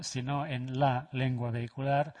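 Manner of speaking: "la" stressed and set apart. Real, not acted. Lecturer draws a distinction for the audience, "la" stressed. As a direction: lean on "la" to mean the one and only. Contrasts "la" with "principal.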